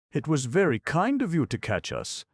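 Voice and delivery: high, hesitant, faltering thanks. A narrator's reading. Clown thanking the stone man, faltering. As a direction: stammer out the thanks nervously. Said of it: "faltered the clown".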